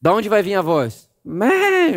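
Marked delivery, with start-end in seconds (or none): 1.2-2.0 a high mock newborn wail; a short imitated baby's cry. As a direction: squeal like a newborn baby crying. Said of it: "um choro".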